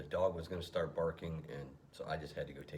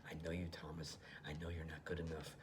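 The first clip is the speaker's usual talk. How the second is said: demon voice; 7 dB quieter than usual. Acted. Alter ego demon taunting Thomas in a whisper. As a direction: hiss it like a demon in his ear. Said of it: "his alter ego demon is talking about".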